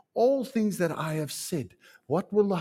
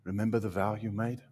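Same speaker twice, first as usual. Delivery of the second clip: gentle quiet; 5 semitones lower, 8 dB quieter than usual. Acted. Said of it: "gently and quietly say".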